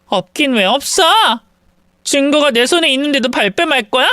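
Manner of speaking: jealous wife snapping at the narrator; angry accusation. Acted. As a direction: fire the accusation back fast. Wife's rival confronts her angrily.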